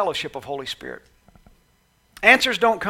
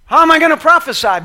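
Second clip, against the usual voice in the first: laughing protest; 9 semitones higher, 10 dB louder than usual. Acted.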